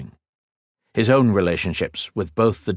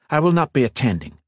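snapping; 5 semitones higher, faster than usual. Acted. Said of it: "he snapped".

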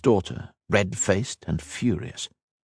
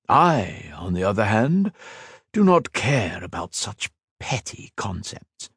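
a lightly voiced immortal villain, scornful; villain Shinzan mocking Ethan's sacrifice, lightly voiced and scornful; cold villain; 5 semitones higher than usual. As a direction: sneer down at a mortal, unhurried. Villain Shinzan taunts the hero.

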